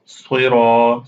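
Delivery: صراط with emphatic swad, ra and ta; heavy letters. Shown as a demonstration. Teacher correcting a mistake, heavy letters in صراط. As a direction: make all three consonants of صراط heavy and rounded. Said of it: "You have to pronounce".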